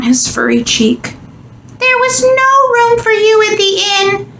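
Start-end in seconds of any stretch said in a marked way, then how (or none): 1.8-4.3 high, tender little squeak; squeaky mouse voice. A narrator's reading. Tearful mouse offering his bed to Jesus, tender squeak. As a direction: offer it gently like a moved mouse. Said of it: "he said".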